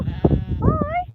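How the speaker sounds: very high little hi; high-pitched greeting. Real, not acted. Farmer saying hello to her animals, very high-pitched greeting.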